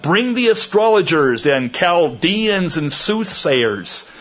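understated cry from a ruler. Acted. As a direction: call out a king's order, slightly hammed-up. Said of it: "he cried out".

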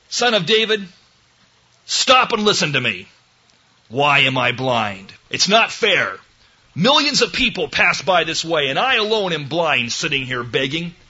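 mildly hammed-up indignant plea; complaining demand. Blind man demanding that Jesus stop for him, complaining. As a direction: argue and complain, loud and punchy. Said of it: "Not questioning, not arguing, not complaining".

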